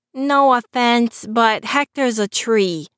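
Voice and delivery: slow, mildly scornful retort; lightly mocking scoff. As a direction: scoff at the idea. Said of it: "scoffed Christopher".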